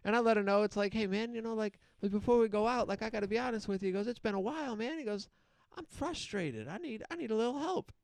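hint of a frustrated old man confiding; lightly voiced old man. Old man quoted at length.

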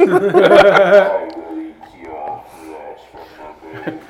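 grinding stone statue. Acted. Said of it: "you sound scary".

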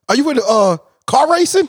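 tipsy stranger asking about racing, pitched high; high mock lady voice. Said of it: "She said".

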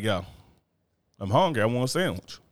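flat, bossy order for food; just demand the sandwich, no sweetness; lazy husband barking for a sandwich; blunt demand. Shown as a demonstration. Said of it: "you ain't gonna say it like that".

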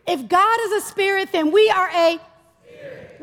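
rising to a big high spirit; preacher calling for the answer; call and response. Shown as a demonstration. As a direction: lead the crowd to shout spirit. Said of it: "I wanna hear you all say it".

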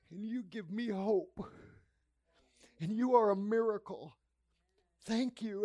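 retold tearful gratitude, breaking up between phrases; tearful doctor. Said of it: "and she's crying".

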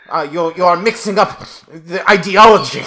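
loud, lecturing foreign pundit; lightly accented, scolding lecture; pompous pundit voice. Retold or imitated. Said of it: "I am parroting".

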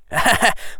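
short high villain laugh; a gleeful little evil laugh; evil chuckle. Acted. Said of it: "with an evil grin".

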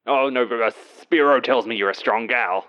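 put-on boss's botched Greek accent on the phone; hammed-up, unconvincing Greek accent; bad Greek accent. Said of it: "I intend on doing this accent".

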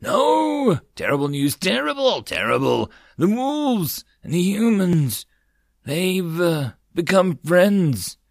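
high, breathless panic; panicking mouse. A narrator's reading. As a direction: blurt it out in alarm. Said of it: "panting and panicking".

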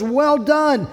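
beaming approval; delighted praise. Retold or imitated. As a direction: cheer them on like a proud God. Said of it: "and God says".

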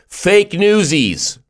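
drawn-out, high-pitched mock shout; high, stretched joke holler; mock heckling yell. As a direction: yell it out slowly like a heckler in the audience. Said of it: "would just yell out".

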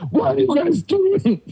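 high, drawn-out scolding voice; slow, high-pitched telling-off, hammed up; grandma's mock yelling. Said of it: "my grandma yelled at me".

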